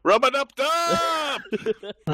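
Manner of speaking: high, slow, laughing cartoon voice; Rick impression. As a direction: belt it out as a manic cartoon scientist. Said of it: "Was würde Rick jetzt tun?".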